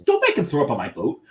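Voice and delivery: half-shouted warning from the captain; yelling captain. Retold or imitated. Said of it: "The, the captain yelled at me".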